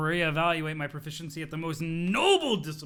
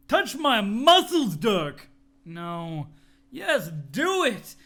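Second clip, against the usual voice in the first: slow loud demand; 6 dB louder, much slower than usual. Acted. Bro demands a touch.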